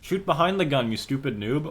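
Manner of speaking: loud, high, exasperated shout at a noob; frustrated yell. Real, not acted. Yelling at player in replay.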